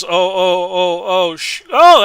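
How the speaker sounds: rising oh, oh with a sudden high burst; a jolt of real excitement mid-sentence; excited. Real, not acted. Player to viewers, excited gasps over a close play. Mimicking a tense play moment.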